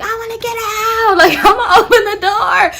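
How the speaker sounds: high pleading aunt. Retold or imitated. Aunt wants out.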